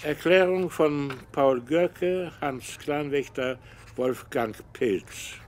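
measured dictation, phrase by phrase; dictating. Acted. Professor dictates statement to secretary.

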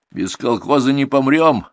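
loud, drawn-out sullen retort. A narrator's reading. Viktor answers the threat of expulsion, sullen. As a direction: push back stubbornly, slowly. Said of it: "угрюмо ответил Виктор".

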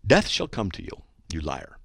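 understated angry curse, falling away; angry curse-you voice. Shown as a demonstration. Host repeats the hate mail's threat, mildly angry curse. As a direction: deliver a threat that drops at the end. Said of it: "That's an angry curse you verse".

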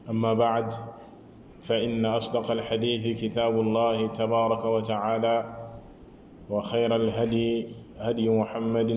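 fast, even-pitched Arabic recitation; formal sermon invocation. Acted. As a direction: recite the opening formula briskly and evenly. (tari khutba ci araab, gaaw)

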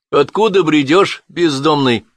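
cheerful. A narrator's reading. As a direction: tease the stranger cheerfully. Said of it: "весело спросил тот".

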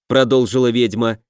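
ordinary delivery, nothing marked

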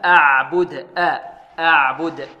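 أعبد with thin vowels, pitched low; light ayn and ba. Shown as a demonstration. Tajweed teacher models for pupils, low, light articulation. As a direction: keep every letter of أعبد light. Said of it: "كذلك ترقيق العين والباء".

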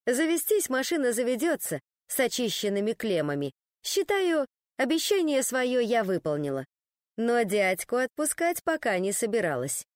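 plain reading voice

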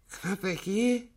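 put-on high, cracked decrepit old man; displeased old man. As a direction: grumble like a frail old boss. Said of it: "разглядывая нас всех недовольно".

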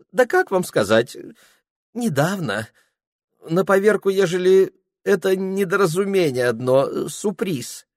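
put-on high, fussy voice of a drunk clerk dodging; flustered young clerk. Ilya fumbling. (высокий суетливый голос смущённого приказчика)

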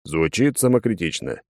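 usual speaking voice

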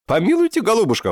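loud, very high outraged cry; indignant exclamation. A narrator's reading. Professor cries out at Dinka's price, indignant and loud. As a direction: throw up your hands in outrage. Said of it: "воскликнул он негодующе".

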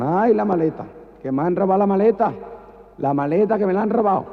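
lamento muy agudo y alto; lamento amanerado. Acted. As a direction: se queja chillando de la maleta. Gritos agudos tras el robo. (chillido amanerado por la maleta)

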